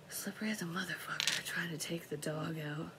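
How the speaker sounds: breathy whispered redo of the line; whispered retry. Shown as a demonstration. Reader whispers the line to herself to retry. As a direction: hush it right down and try the line again. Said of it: "I don't like the way that sounded".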